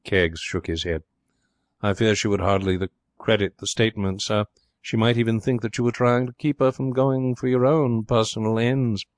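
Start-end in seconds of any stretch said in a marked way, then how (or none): 1.8-9.1 lightly voiced deferential butler; a hint of a very proper butler; smooth butler. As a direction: answer as a discreet, respectful manservant.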